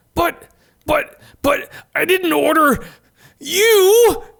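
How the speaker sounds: very high, furious yell, drawn-out "you". Reading a story aloud, a character refusing his order: angry yell. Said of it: "Ed yells angrily".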